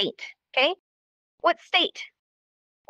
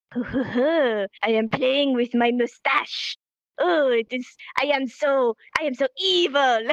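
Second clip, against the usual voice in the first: French villain. Retold or imitated. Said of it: "like, a French villain".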